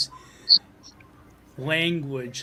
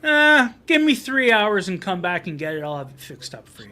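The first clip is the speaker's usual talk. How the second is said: John Candy's food repairman; 4 semitones higher, 6 dB louder than usual. Retold or imitated. Repairman promising Missus Jones a fix, hammed-up voice. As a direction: play the skit's reassuring repairman. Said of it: "John Candy as the food repairman".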